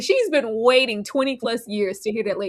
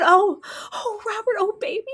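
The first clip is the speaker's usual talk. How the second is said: mock consoling; 11 semitones higher than usual. Mocking wife consoling Robert.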